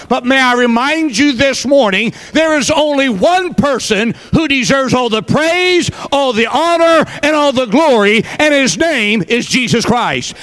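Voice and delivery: building preacher's cry on praise, honor, glory; preaching. Real, not acted. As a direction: lift it up like a preacher. Preaching climax.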